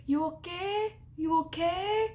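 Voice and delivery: lightly imitated maid checking in; housekeeper calling. Housekeeper at the hotel door, high call.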